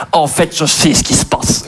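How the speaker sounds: slow, badly faked Belgian accent; accent belge raté. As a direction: lightly imitate a Belgian therapist, slowly. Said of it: "pas savoir faire l'accent belge". (psy à l'accent belge maladroit, lent)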